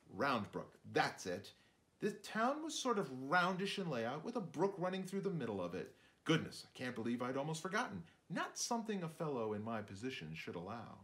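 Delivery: lightly voiced fussy shrew, searching memory; a hint of a forgetful little narrator; chatty shrew musing aloud, pausing to recall. Narrator shrew interrupts himself.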